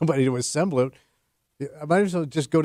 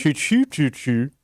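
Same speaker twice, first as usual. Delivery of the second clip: Swedish-ish gibberish; slower than usual. Pretend. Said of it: "You're getting it".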